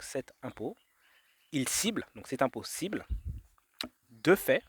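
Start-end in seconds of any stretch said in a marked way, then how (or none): 1.5-2.1 "il cible" set apart, higher and rising; hidden words separated. Shown as a demonstration. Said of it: "il y a également la phrase". 4.1-4.6 "deux faits" set apart, higher, louder, rising; hidden words separated. Shown as a demonstration. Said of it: "il y a deux faits qui ciblent".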